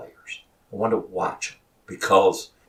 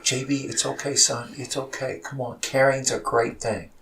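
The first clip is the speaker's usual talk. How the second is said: softer, higher reassurance; retold consoling; 5 semitones higher, 5 dB quieter than usual. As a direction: re-enact a coach comforting his upset player. Coach consoling crying player, retold.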